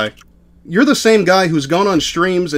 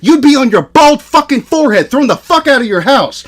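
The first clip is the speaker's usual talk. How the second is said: heated, higher-pitched tirade; angry berating; 3 semitones higher than usual. Real, not acted. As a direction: tear into him mid-argument. Heated argument, berating the other streamer.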